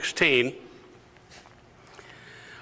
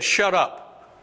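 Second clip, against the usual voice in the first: silencing retort; 6 semitones higher than usual. Acted. Acted opponents silencing believers.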